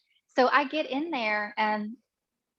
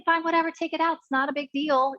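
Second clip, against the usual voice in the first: higher, breezy brush-off; retold dismissive nonchalance; 6 semitones higher than usual. Patient still thinking it's minor, dismissive. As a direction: act out shrugging it off as nothing. Acting out her unworried consent.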